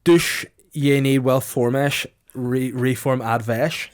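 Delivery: slow, mock Irish-accented reading; mock Irish version. Shown as a demonstration. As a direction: drawl it as fake Irish. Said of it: "in Irish".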